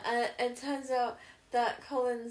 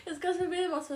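higher, giggly protest; laughing while talking; 7 semitones higher, 3 dB louder than usual. Real, not acted. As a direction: explain it through real giggles. Giggling over own muddled words.

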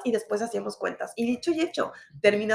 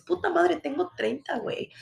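higher, punchy celebration of thirty; proud cheer; 5 semitones higher than usual. Retold or imitated. Urging viewers to celebrate their age, proud cheer. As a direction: say it like a triumph. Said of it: "por qué no dices".

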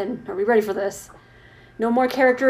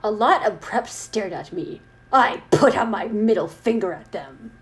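measured fan fiction read-aloud; story narration. Acted. Reader reciting goth fan fiction to co-host, story narration. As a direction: read it out with weight on the descriptions.

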